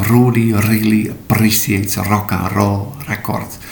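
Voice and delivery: Indonesian accent, rolled R trilled like a mandolin; "Rudy really appreciates" with Indonesian trilled R. Shown as a demonstration. Teacher imitating how Indonesian students say it, Indonesian accent. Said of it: "with an Indonesian or typically Indonesian accent".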